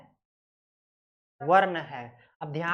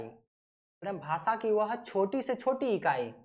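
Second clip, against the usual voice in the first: slower, leaning on छोटी से छोटी; slow emphatic repeat; 4 dB quieter, slower than usual. Shown as a demonstration. Teacher repeating the definition for students, slow and deliberate. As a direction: spell it out slowly for the class, hitting छोटी.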